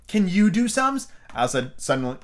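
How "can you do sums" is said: high, drawn-out challenging question; sudden challenge. A narrator's reading. Alice turning on the White Queen, challenging. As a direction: turn the question back on her. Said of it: "turning suddenly on the White Queen".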